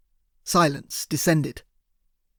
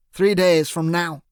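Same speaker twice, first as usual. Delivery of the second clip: gloating boss; 4 dB louder, slower than usual. A narrator's reading. Dickman gloating.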